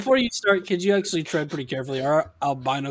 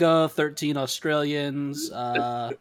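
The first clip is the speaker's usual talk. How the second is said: reading out statistics; 2 semitones lower, slower than usual. Acted. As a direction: read slowly down a list of figures. Acts out reading site listener metrics.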